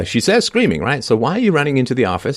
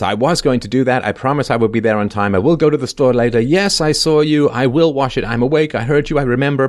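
higher, sing-song mock excuses; 3 semitones higher than usual. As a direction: rattle off the lies like a caught child. Mocking her white lies.

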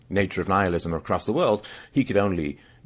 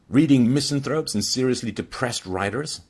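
mocking dad; 6 semitones higher, 4 dB louder than usual. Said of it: "like mocking his son".

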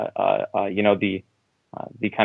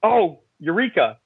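eureka; 7 semitones higher, slower than usual. Retold or imitated. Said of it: "I was like".

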